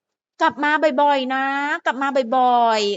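slow, stretched-out fan plea; lightly voiced pleading fan; imitated fans. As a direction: draw out each word like fans seeing someone off. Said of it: "ชอบบอกว่า".

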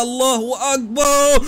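high, slow, stretched-out shout; drawn-out cry. Real, not acted. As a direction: stretch it out as you fly off the ramp. Launching off the jump.

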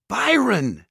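high, loud call to the griffin. A narrator's reading. Simon calls up to his griffin on the roof, a loud high call. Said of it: "Simon called".

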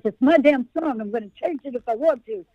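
Bernie Sanders rant; grumpy old senator voice; Bernie Sanders impression. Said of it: "I'm gonna sound like Bernie Sanders".

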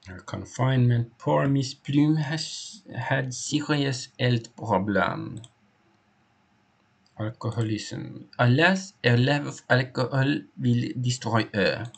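lightly put-on voice, lamenting poor Miss Plume; lightly voiced witness. Witness telling the inspector of Miss Plume's drinking, lightly acted. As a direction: read it as a concerned witness giving testimony. Reads a witness's statement in character.

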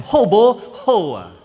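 high, loud Hokkien auntie voice; elderly resident voice. Retold or imitated. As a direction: call out like an old auntie.

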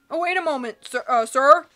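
urgent call. Acted. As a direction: call out in a hurry. Character calling out.

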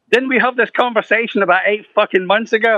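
high, amused disbelief through laughter; laughing retort. Retold or imitated. Teasing Gordon about the old call, laughing. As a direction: laugh it off in mock exasperation.

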